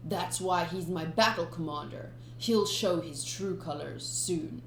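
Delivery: lightly voiced proud pirate boss; pirate captain voice. Captain boasting about his commander, lightly voiced. Voices Krieg praising Gin.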